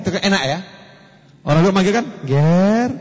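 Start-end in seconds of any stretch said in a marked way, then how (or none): 2.2-2.9 soft call. Shown as a demonstration. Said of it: "halus gitu".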